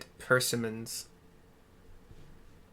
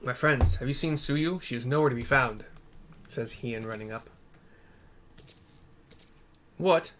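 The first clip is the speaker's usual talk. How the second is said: a hint of a worried ruler; lightly voiced alarmed lord; faster than usual. Streamer voices cutscene characters.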